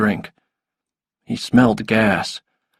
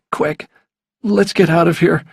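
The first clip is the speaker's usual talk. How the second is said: higher-pitched, mildly urgent plea; a touch of alarm, pitched up; 6 semitones higher than usual. A narrator's reading. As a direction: urge them to leave, without shouting. Boy wants to flee danger.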